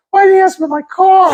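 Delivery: high-pitched comic Pittsburgh voice; Pittsburgh accent. Retold or imitated. Neighbor griping about his car, high Pittsburgh accent. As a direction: whine it high in broad Pittsburghese. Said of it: "that's a Pittsburgh accent".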